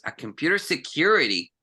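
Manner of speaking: known words rushed through; quick skip. Shown as a demonstration. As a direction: skip over the words everyone knows. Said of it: "pronunciándola rápido".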